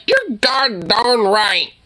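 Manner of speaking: slow, dainty "god darn right", lightly mocked; mock prissy version. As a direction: drag out "god darn" like a timid man. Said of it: "Don't be like".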